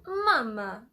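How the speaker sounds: "mama" with a cry in the voice. Shown as a demonstration. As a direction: put a little sob into "mama". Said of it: "kind of a cry in there".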